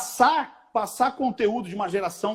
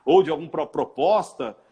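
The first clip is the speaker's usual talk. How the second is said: usual speaking voice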